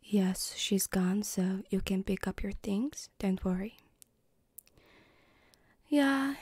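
lightly voiced polite mom; a hint of a reassuring mother. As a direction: play a mom, only slightly put on. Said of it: "I'm trying to do my mom voice now".

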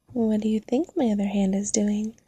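teasing whispered question. Acted. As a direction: whisper it playfully.

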